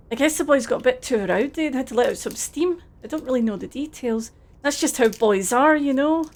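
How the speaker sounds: put-on Scottish accent, friendly and a bit overdone; terrible Scottish accent. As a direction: play it as a cheery Scottish lad in a Scottish accent. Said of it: "please enjoy my terrible Scottish accent".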